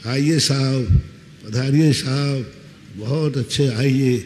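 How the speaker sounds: a hint of an overly polite hostess; mild sweet welcome; mock welcoming wife. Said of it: "ऐसी पत्नी ने कभी कहा?".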